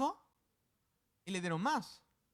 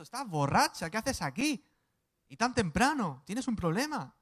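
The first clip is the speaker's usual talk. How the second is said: loud, scolding accusation; a hammed-up angry priest telling her off loudly; accusing priest; 5 semitones higher, 10 dB louder than usual. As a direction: bark at her like a stern priest. Priest accusing Ana of drunkenness.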